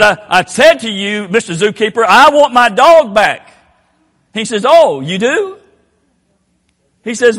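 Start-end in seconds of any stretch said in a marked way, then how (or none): 0.0-3.5 belligerent demand. Retold or imitated. Angry owner confronts the zookeeper, louder and insistent. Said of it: "the guy got belligerent". 4.7-5.6 higher, sly "oh, you do?"; mock surprise. Zookeeper slyly answers the owner, high and mocking.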